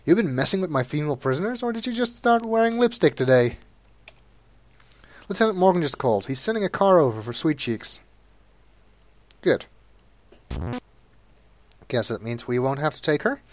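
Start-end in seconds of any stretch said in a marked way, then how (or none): 0.1-8.0 mock jailer, pitched up and teasing. Jailer teases Sonny about his female prisoners. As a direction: rib the cop about lipstick.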